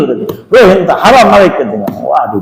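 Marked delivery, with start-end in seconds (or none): 0.5-1.5 angry Arab seller. Retold or imitated. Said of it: "marah tuh orang Arab".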